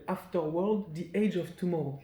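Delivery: English title in a French accent. Shown as a demonstration. Host reading the game's title, French accent. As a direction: say it with French vowels and consonants. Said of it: "Je le dis avec l'accent français".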